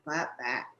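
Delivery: voiceless hushed aside; whispered clap back. Retold or imitated. Speaker voicing her urge to retort, in a whisper. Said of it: "I wanna be like".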